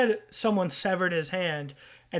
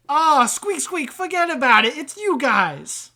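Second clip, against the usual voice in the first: chummy wiseguy rat; 8 semitones higher, 10 dB louder than usual. Acted. Rat trader greeting visitors to the sewer, chummy wiseguy. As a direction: hail old pals as a sewer rat. Game master voices rat character.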